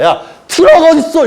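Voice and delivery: high, loud shout; mock frantic shout; shouted question. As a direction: yell for the truck. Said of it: "이러고 있을 거야".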